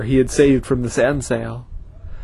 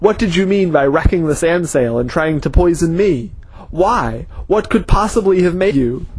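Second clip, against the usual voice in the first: yelled; 4 semitones higher than usual. Acted. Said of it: "he yelled".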